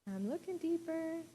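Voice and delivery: mock defensive reply. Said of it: "And I was like".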